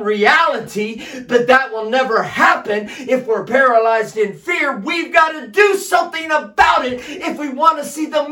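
driving, emphatic sermon delivery; full-force preaching. Acted. Preacher urging the church to act on God's promises, full-force preaching. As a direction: preach it with rising urgency and punched key words.

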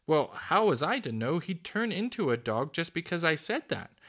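high, loud, indignant protest; cross. A narrator's reading. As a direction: defend yourself crossly. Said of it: "still feeling cross".

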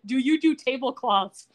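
slow, imitated ingratiating question; mock sucking up. Planner kisses up to Jane about work, mock ingratiating. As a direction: flatter with a drawn-out mock politeness. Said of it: "kiss up to Jane".

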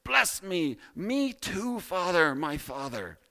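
high, loud pleading wail; bitter cry. A narrator's reading. Esau begging his father for a blessing, bitter cry. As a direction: cry out to your father, pitched high at first. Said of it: "burst out with a loud and bitter cry".

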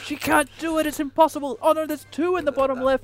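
stressed commentary. Real, not acted. Tense play commentary.

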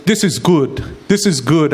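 lightly voiced upbeat servant; a hint of an always-positive servant; ever-positive servant. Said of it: "the way he made the voice sound".

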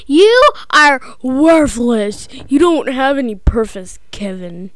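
imitating a mean uncle, mildly. Child imitating the movie uncle scolding Kevin, mildly mean. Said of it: "mean. Like, he's like".

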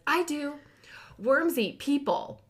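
put-on high, eager five-year-old voice; a child proudly blurting it out; excited child. Son at story time, eagerly answering the librarian, high and keen.

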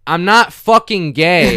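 loud, slow, defensive yell; retold shout. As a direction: shout the denial back. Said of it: "I literally shouted".

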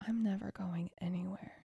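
a soft unvoiced whisper, tender and intimate; hushed, tender whisper of reassurance; whispered promise. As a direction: breathe it like a secret vow. Quoting the felt promise of love.

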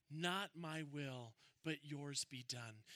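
very slow, soft and surrendered; hushed, slow and yielding; reverent prayer. Acted. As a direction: let each word fall like a quiet prayer. Jesus' prayer, quoted slowly.

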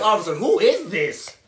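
slow, laughing fake innocence to a cop; mock innocent passenger. Friend pretends to the officer he doesn't know her, laughing mock innocence. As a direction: play dumb for the officer, slowly, through laughter.

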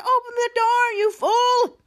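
mock-angry high-pitched command; indignant storyteller's yell; retold angry order. Acting out Archduke's angry order.

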